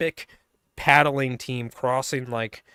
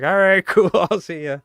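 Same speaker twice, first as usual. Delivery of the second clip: brush off; 7 semitones higher, 7 dB louder than usual. Retold or imitated. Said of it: "I was like".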